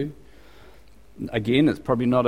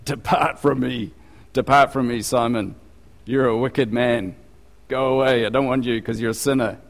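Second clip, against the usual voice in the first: mock stern condemnation. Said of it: "He doesn't say".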